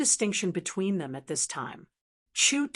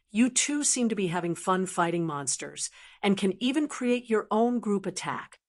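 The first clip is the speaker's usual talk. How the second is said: mocking.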